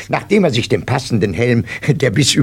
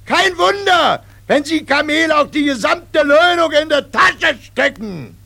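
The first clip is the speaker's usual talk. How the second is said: drill sergeant; 13 semitones higher than usual. Acted. Sergeant scolds recruit.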